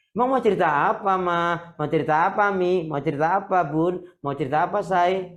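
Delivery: playful husband answering his wife. Acted. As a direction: sweetly ask what she wants to tell. Husband replies, acted dialogue.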